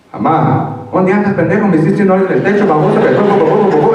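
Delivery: high, loud furious Mexican mom scolding in Spanish; angry mom scolding. Retold or imitated. Mother scolding her son over the phone, high loud scolding. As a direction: yell at your son like an outraged mother.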